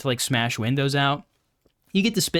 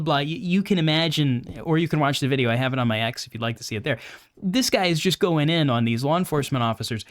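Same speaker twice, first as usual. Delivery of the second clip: ordinary talk, nothing marked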